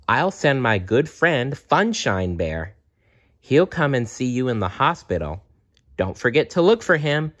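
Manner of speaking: gently voiced caring bear; a kind bear comforting a sick girl; Cheer Bear. Cheer Bear says goodbye.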